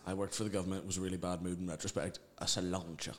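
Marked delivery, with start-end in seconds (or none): 2.4-3.1 sláinte said the Mayo way, broad and heavy; thick Mayo accent on sláinte. Shown as a demonstration. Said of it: "me saying sláinte in a really heavy Mayo accent".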